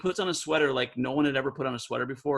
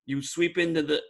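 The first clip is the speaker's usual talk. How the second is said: put-on New York accent; 3 semitones higher than usual. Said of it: "he's like".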